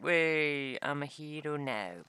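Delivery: hammed-up hero's hurrah; mock celebration. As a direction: play a triumphant new hero, stretching it out. Mock celebration on finding loot.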